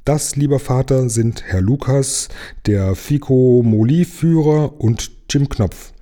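lightly voiced high mermaid; a hint of a bubbly sea girl. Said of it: "sagte die Seejungfrau".

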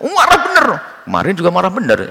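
put-on bored child. Child shrugs off parent's anger.

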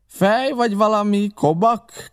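high, slow mocking outcry; indignant exclamation. A narrator's reading. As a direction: cry out at his stupidity. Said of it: "kiáltott föl".

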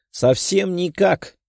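high, slow, teasing chorus; chorused reply. A narrator's reading. Girls answer the guy in chorus, high and teasing. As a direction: girls answering together, drawn out. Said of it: "хором ответили девушки".

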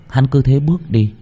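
plain reading voice

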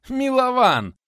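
put-on old friend recognised, name cried out laughing; laughing recognition. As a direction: burst out the name through a laugh. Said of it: "расхохотался Булыцкий".

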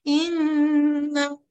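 إن held very long, all through the nose; nasal-only إن. Shown as a demonstration. Teacher imitating a student's wrong nasal sound: long إن. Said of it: "شايفة إيه ده".

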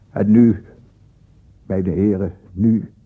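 a burst of volume on the first word; loud sharp opening; sudden loud call. Acted. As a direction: jolt them awake with it. Sudden loud turn to listeners.

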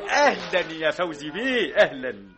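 chuckling fawning welcome, slowed; obsequious laugh while greeting. Acted. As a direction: greet the boss through a laugh.

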